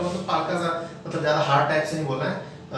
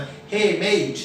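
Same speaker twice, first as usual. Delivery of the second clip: calling a friend; 3 semitones higher, much slower than usual. Shown as a demonstration. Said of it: "जैसे किसी दोस्त जा रहा है".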